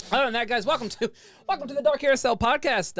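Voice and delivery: loud, high laughing welcome. Real, not acted. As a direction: welcome them while cracking up.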